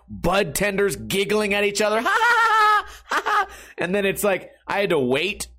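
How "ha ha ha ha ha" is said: cracking up at his own punchline; real laughter. Real, not acted.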